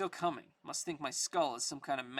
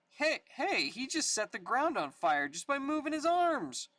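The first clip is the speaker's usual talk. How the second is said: startled; 9 semitones higher, 4 dB louder than usual. Acted. Gang member panics.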